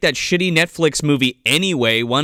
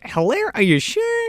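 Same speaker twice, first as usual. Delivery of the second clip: high, slow incredulous question; high-pitched mock disbelief. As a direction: question it in squeaky, drawn-out disbelief. Acting own reaction to praise.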